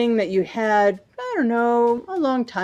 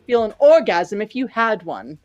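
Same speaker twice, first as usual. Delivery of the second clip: a lightly voiced, higher snippy comeback; insulting retort; 4 semitones higher than usual. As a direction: fire the insult right back. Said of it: "they're insulting each other".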